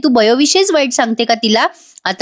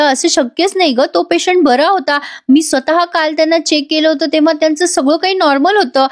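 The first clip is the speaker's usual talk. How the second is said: higher, lightly acted disbelief; pitched-up insistence that it can't be; insistent disbelief; 5 semitones higher than usual. Aarav tells Ankita the patient was fine, pitched-up disbelief.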